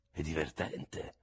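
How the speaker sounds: slow, understated comment; unamused pet phrase. A narrator's reading. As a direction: draw it out quietly. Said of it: "quando la pronunciava l'espressione del viso".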